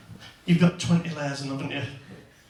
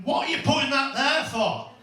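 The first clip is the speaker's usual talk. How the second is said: retold shouting; 9 semitones higher than usual. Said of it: "I'm shouting at her".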